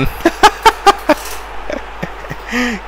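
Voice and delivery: airy high laugh, no voice; a quick breathless cackle at the game; breathy laugh. Real, not acted. Player laughs at the foul on screen, breathy laugh.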